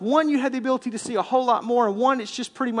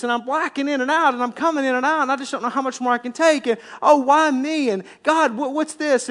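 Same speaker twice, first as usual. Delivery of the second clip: higher, louder mock whine of protest; acted "why me?" griping, pitched up; blaming complaint; 4 semitones higher, 4 dB louder than usual. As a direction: rattle off grievances at God like a put-upon victim. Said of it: "we wanna begin to blame".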